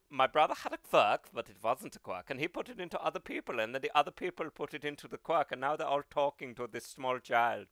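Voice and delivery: put-on light German accent, rambling; All for One. Villain explaining his brother's quirk, German accent. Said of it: "light-voiced German".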